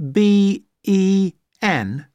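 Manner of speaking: slow, letter by letter; spelling it out. Shown as a demonstration. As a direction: spell each letter slowly. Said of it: "Do you spell that".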